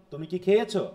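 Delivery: light কি, emphasised খেয়েছো; stress on খেয়েছো. Shown as a demonstration. Teacher quizzing students on the stressed word, stress on খেয়েছো. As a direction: land the weight on খেয়েছো. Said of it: "এটার হচ্ছে কার উপরে চাপ?".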